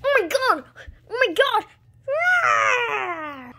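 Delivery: loud, high amazement; amazed exclamation. Acted. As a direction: burst out in amazement. Reacting to the hatched dinosaur.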